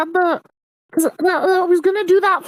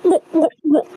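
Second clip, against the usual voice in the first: imitated oohs. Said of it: "I started doing the".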